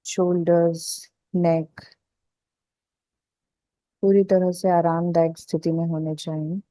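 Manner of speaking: calm meditation guide with long pauses; guided relaxation. Acted. Guide telling listeners to loosen the body, guided relaxation. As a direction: ease listeners into letting go, unhurried.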